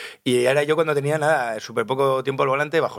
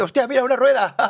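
retold surprise; 10 semitones higher, 4 dB louder than usual. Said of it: "y de repente".

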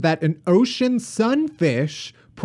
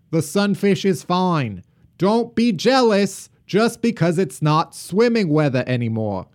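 put-on mid-century radio announcer with a Boston accent; formal Kennedy-style Boston read. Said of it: "It's my Kennedy accent".

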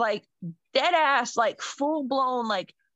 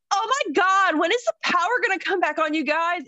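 put-on whiny girl voice; 7 semitones higher, 6 dB louder than usual. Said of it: "she got on my goddamn nerves".

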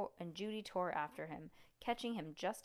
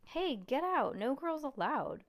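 shouting; 7 semitones higher, 8 dB louder than usual. Acted. Frank shouting at Judy.

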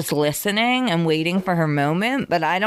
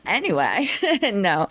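talking through a yawn; yawning mid-sentence. Real, not acted. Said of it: "Sorry for the yawn".

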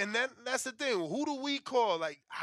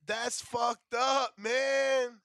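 angry shout; 4 semitones higher, 4 dB louder, much slower than usual. Real, not acted. Robbed by a boxing disqualification.

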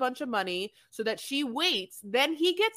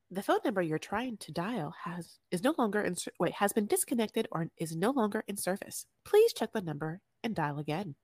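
phone recording; 3 semitones lower, 4 dB quieter than usual. Retold or imitated. Imitating phone company recording.

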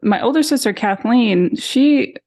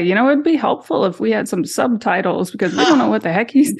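friends joking; 5 semitones higher, faster than usual. Retold or imitated. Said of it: "some of my friends say".

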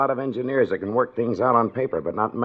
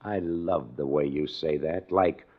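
mocking; 4 semitones lower than usual. Mocking Morton's casual suggestion.

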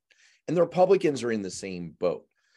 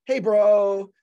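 put-on high, bright-eyed Valley girl voice, drawn out on how you doing; 6 semitones higher than usual. A pundit mocks Haley calling Sununu as a Valley girl. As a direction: play Nikki Haley as a breezy Valley girl. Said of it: "make her sound like a Valley girl".

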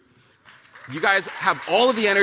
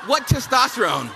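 laughing, higher scoff; 5 semitones higher than usual. Real, not acted.

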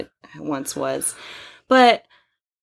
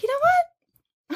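dramatic declaration; much slower than usual. Retold or imitated. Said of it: "I was like".

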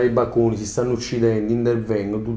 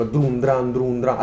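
mouth noise; much slower than usual. Shown as a demonstration. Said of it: "rumore con la bocca".

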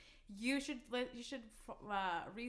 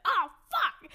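sudden loud "Oh, fuck!"; shocked exclamation; 11 semitones higher, 12 dB louder than usual. Retold or imitated. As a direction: blurt it out in a panic. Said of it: "And I was like".

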